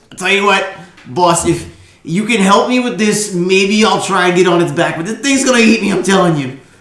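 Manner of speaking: jittery, loud, high-pitched, nervous tone. Voicing Boblin offering a deal to the boss: Boblin bargaining nervously. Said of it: "Boblin says".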